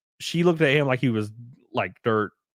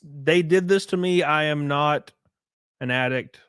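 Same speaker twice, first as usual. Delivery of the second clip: retold protest; 3 semitones higher than usual. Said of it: "She's like".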